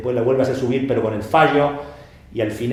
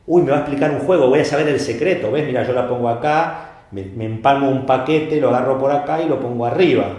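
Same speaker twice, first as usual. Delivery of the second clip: louder and fast, thrilled to learn the secret; eager spectator; 4 dB louder than usual. Retold or imitated. Spectator thinks the magician will reveal the secret, excited and quick. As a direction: rattle it off like a fan about to get the trick. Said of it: "te agrega otra emoción".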